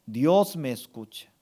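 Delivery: low, with weight on "Dios"; firm affirmation. Shown as a demonstration. Pastor gives congregation words to accept, low firm affirmation. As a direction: declare it as settled truth. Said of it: "Usted tiene que aceptar".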